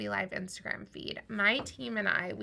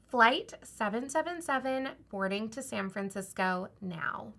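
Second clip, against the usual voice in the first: lightly voiced airline announcement; flight attendant voice. Shown as a demonstration. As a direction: read it like a cabin crew announcement. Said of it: "like your flight attendant voice".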